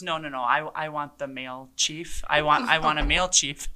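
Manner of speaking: a hint of a stubborn old man insisting. Older resident demanding a male chief, mild insistent voice. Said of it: "the guy looks at me and he goes".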